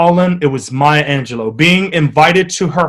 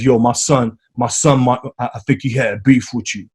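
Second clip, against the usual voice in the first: impression of a rapper; 4 semitones lower, 3 dB quieter than usual. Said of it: "he pulls me over and he says".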